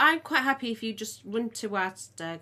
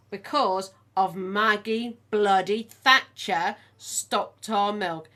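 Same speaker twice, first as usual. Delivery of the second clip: slow, louder, indignant; 7 dB louder, much slower than usual. Real, not acted. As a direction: spit out bloody Thatcher. Indignant about Thatcher.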